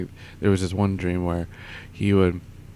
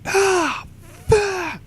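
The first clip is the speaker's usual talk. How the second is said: squeaky, much higher mock curse; cursing himself; 4 dB louder than usual. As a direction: squeal it out in a cartoonish high pitch. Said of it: "and he's like".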